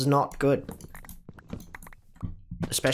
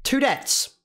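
shocked yelp; 12 semitones higher than usual. Real, not acted. Squeaky outburst at deaths.

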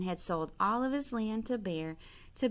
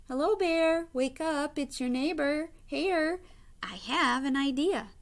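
chirpy Hare; 6 semitones higher than usual. A narrator's reading. Hare voiced sweetly waking Bear.

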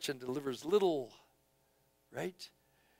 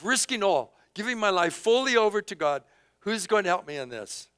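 building preaching; 6 semitones higher, 4 dB louder than usual. Acted. Preaching crescendo.

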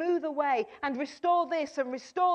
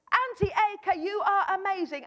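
"Auntie Edgar" called out higher and bolder; big voice; 5 semitones higher, 3 dB louder than usual. Retold or imitated. Child told to use a big voice, proud call. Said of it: "say it in a big voice".

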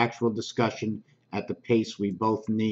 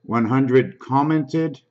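louder and slow, drawn-out announcing; too loud; 3 semitones higher, 4 dB louder, slower than usual. Shown as a demonstration. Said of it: "We're gonna bring this down again".

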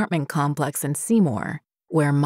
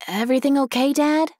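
worried call; 10 semitones higher than usual. A narrator's reading. Child calls out to dad at night.

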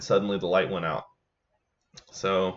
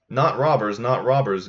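louder, breathless frightened denial; terrified gasp; 5 dB louder than usual. Acted. Terrified merchant answering the peddler, breathless frightened gasp. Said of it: "gasped the terrified man".

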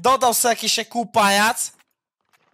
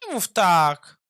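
slow drawn-out begging; mock pleading; 2 semitones lower, slower than usual. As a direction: drag it out like a whiny plea. Begs friend to keep playing. (przesadne, przeciągane błaganie)

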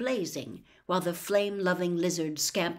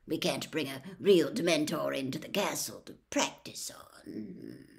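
hushed aside; 3 semitones lower than usual. Acted. Lupin half-joking aside.

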